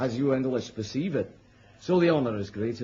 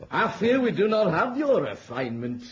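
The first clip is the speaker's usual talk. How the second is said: laughing; 5 semitones higher than usual. Acted. Knight jokes with queen.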